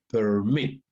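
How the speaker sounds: permit with the weight on MIT, as in perMIT; stress on last syllable. Shown as a demonstration. Teacher showing students where permit is stressed. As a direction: say permit leaning on the end, MIT. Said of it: "¿Dónde está la mayor fuerza de voz? Al final".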